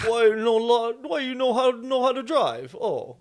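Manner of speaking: high, loud mock Russian-Asian accent; shouted, hammed-up attempt at a Russian-Asian accent; botched Russian-Asian accent. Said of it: "it's a little Russian with Asian discrimination in it".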